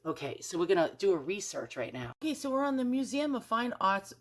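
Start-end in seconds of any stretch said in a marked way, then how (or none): 2.2-4.1 thick Boston accent, dropped r's. Shown as a demonstration. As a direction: say it like a Boston local. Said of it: "I just did a Boston accent".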